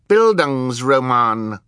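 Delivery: put-on high, loud, drawn-out child's voice; baby Sunny. A narrator's reading. Sunny summing up the story, high baby voice. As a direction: stretch it out high and forceful.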